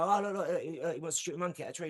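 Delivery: hurried mock reply from jungle folk; imagined jungle locals. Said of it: "they'd go".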